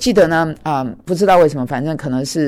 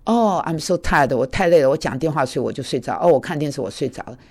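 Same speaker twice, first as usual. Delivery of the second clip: tired roommate. Retold or imitated. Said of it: "他说".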